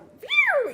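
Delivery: high, loud mocking laugh; imitated laugh. Husband laughs off rival cars, loud mocking laugh. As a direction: hoot out a cocky laugh. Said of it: "And he just like".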